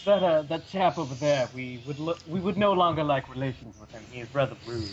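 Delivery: mild mock-posh English gentleman, slowish; faint stuffy British aristocrat voice; posh British accent. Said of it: "an incredibly posh British man".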